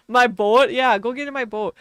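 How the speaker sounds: Midwestern accent, long round O in boat; exaggerated Midwestern accent. Shown as a demonstration. Saying boat because it sounds funny, Midwestern accent. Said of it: "That's why I like saying boat".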